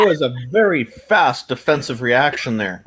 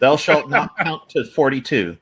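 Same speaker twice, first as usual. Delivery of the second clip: mock scripture; slower than usual. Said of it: "sounds like it would be in a Bible".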